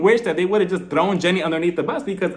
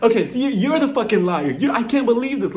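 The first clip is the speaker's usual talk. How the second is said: mock-indignant, higher-pitched accusation; imitated angry outburst; 4 semitones higher than usual. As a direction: play at being outraged, mildly heated. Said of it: "like a bat out of hell".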